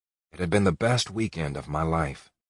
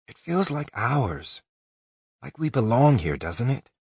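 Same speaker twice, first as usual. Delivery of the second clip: Allie wistful; 8 semitones higher than usual. Acted. Allie begging Colt to stay longer, wistful and high. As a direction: linger on it like you never want to leave.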